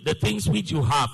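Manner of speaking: slow, phrase-by-phrase scripture reading; drawn-out, deliberate read-along. Shown as a demonstration. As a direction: lead the congregation through it slowly, pausing between phrases. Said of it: "Now read with me slowly".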